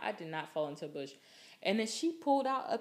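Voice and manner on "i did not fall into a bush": fast, mock-offended insistence; indignant denial. Retelling denying to friend she fell, indignant. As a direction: brush the claim off quickly. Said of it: "And I'm like".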